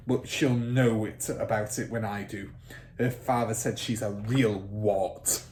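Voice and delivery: loud, fast, domineering rant; blustering headmistress. Acted. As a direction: hold forth like a bully who owns the room. Trunchbull voiced.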